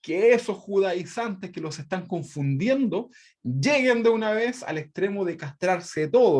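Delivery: slow, pointed sarcastic jab, a touch angry; mock-angry apostle, half-sarcastic; angry sarcasm. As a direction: lean on it slowly like a biting joke. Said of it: "les dice enojado".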